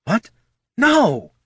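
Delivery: high, indignant hiss; sharp, high-pitched denial. A narrator's reading. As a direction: hiss it in affront. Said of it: "hissed the Solomancer".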